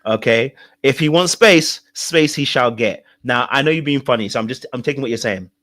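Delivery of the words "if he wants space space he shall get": mock defiant quote. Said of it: "Darika says something very funny".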